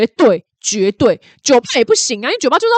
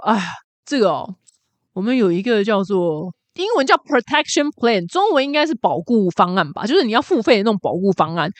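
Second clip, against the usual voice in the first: world-weary clerk. Retold or imitated. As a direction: drag through it like a weary clerk. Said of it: "最厌世的店员".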